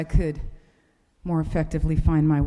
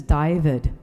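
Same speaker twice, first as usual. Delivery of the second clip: put-on name in a light New Zealand accent; 3 semitones lower, 4 dB louder than usual. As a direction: say it like a Kiwi sat-nav. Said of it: "speaks with a New Zealand accent".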